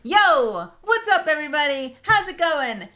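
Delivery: very high, loud, hyper streamer greeting; chipmunk voice. Acted. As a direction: squeak it out bursting with energy. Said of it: "the mel who shows up and is like".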